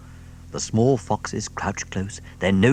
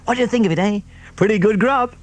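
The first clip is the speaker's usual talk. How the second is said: high, louder gleeful fox; 13 semitones higher, 7 dB louder, faster than usual. A narrator's reading. Mister Fox to Badger, gleeful high voice. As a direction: crow over the feast. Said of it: "dancing up and down".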